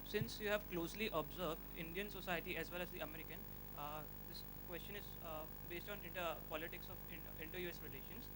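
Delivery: distant, faint off-mic voice; speaking well away from the mic; mic too far. Real, not acted. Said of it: "You, you put the mic closer to your mouth".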